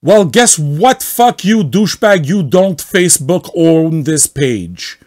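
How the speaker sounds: hammed-up yell at the admin; angry member shouting at the admin; mock furious yell. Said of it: "I want to get it all right".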